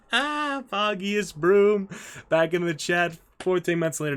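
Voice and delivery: high, loud, stretched-out name; drawn-out excited call. Real, not acted. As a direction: call the name out slowly with delight. Hailing a returning chatter.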